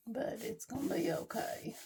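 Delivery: soft whispered reassurance; quiet whisper to herself. Real, not acted. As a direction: whisper it to calm yourself.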